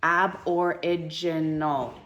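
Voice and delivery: ABORIGINAL sounded out slowly, one syllable at a time; teacher slowly splitting "Aboriginal" into its syllables. Shown as a demonstration. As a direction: break Aboriginal into slow, separate syllables. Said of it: "this is how you split this word".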